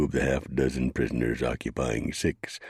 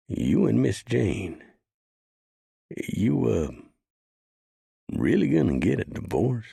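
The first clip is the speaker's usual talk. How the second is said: a higher deputy voice, hesitant; worried deputy; 11 semitones higher than usual. Acted. Rio asks about the divorce.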